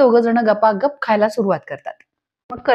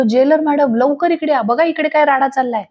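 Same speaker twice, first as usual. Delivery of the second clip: higher, mildly urgent retold call; urgent summons; 4 semitones higher than usual. Constable calls the jailer to a fight, in a lightly acted urgent summons. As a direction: imitate someone hurriedly summoning help.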